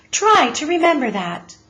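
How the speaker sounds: gentle father's reminder. A narrator's reading. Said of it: "Mister Lambchop said".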